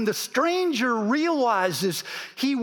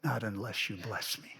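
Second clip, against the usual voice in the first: hushed plea; 10 semitones lower, 11 dB quieter, faster than usual. Acted. Jacob clinging, demanding blessing.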